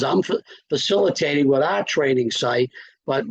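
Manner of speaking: talking through the hiccups; hiccuping between words. Real, not acted. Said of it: "I got the hiccups".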